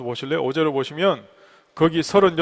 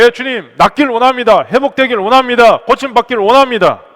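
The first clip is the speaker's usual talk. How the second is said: loud, higher-pitched pulpit delivery; full-force preaching; 6 semitones higher, 11 dB louder than usual. Real, not acted. Pastor telling the congregation of the man at the pool, forceful preaching.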